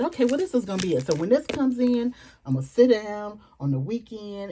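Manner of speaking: rushing the words out fast and loud; gushing about her new planner plan; excited. Real, not acted. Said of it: "I'm just excited".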